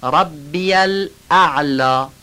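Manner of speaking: ربی الاعلی with a thick, heavy ain in الاعلی, drawn out slowly. Shown as a demonstration. Teacher to students, modelling the ain in الاعلی slowly and heavily. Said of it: "عین و غلیظ بگید".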